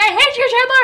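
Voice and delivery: high-pitched, lightly mocked outburst; retold angry yell. Girl re-enacts accusing her best friend over a boy, mild mock yell. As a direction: replay a jealous teenage yell, only mildly loud. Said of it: "I yelled at Chandler".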